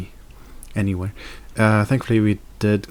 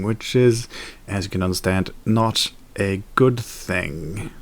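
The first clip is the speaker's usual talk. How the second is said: newscaster voice. Real, not acted. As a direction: read it like the evening news. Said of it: "talking in this very newscaster voice, finishing sentences like this".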